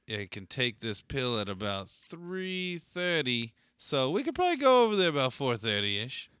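lightly put-on Boston accent; hint of a Boston accent. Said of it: "That's how Robert Kraft talks".

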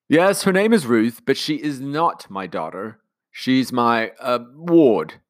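high, hesitant widower; commander. Acted. Commander explaining the baby to Nanny, high then hesitant. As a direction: stumble a little over ward.

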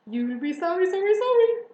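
high, loud warning climbing in pitch; calling out. A narrator's reading. Goose warning retreating pig, rising call. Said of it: "called the goose".

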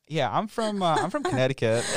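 answering through real laughter, pitch up high; laughing. Real, not acted. Asked the most hated question, laughing as she answers. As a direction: laugh your way through naming the home state.

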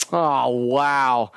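solemn. Retold or imitated. Dad reacting to Han Solo's death, solemn hush. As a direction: say it like a hushed mourner. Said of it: "very solemnly just goes".

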